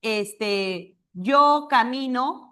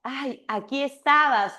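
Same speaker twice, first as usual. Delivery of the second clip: slow demo; 3 semitones higher than usual. Shown as a demonstration. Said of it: "¿Cómo te dice?".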